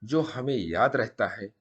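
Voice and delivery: measured, deliberate recital with pauses; solemn quote reading. Acted. Storyteller opens the video with a saying, measured recital. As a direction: recite it as a thought to ponder.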